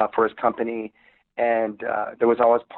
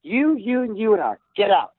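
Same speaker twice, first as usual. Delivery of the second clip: raised, firm Australian voice firing them; mock Australian boss; 7 semitones higher than usual. Dispatcher firing the band to push them back, mock Australian. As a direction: push them out with tough love. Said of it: "he just said".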